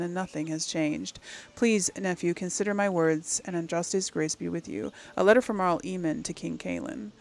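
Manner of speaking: measured, earnest reading voice; letter read aloud. Acted. Player reading an uncle's plea to the king, measured reading. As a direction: read the counsel out evenly and formally.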